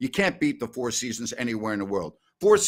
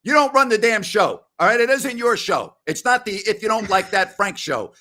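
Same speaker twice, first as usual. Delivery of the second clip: indignant on-air rant, voice raised high; angry rant; 6 semitones higher than usual. Acted. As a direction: blast Frank for meddling with the show. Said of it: "I love this energy".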